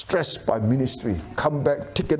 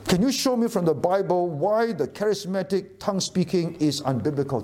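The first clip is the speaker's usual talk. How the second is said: put-on child asking parents; 6 semitones higher than usual. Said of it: "when you are asked by your children".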